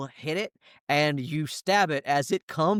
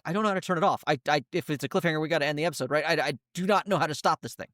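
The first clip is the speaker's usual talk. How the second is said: panicked; 3 semitones higher, much faster than usual. Acted. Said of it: "turns to Helena in a panic".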